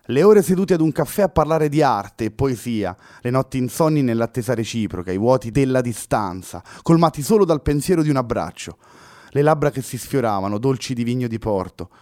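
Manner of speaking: Luna sighing. A narrator's reading. Girl reminding Fernando of their love, sighing plea. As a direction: plead with a heavy heart. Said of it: "concluse sospirando Luna".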